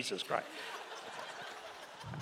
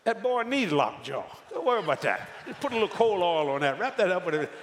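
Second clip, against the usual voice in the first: gruff grandfather; 4 dB louder than usual. Retold or imitated. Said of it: "my grandfather said".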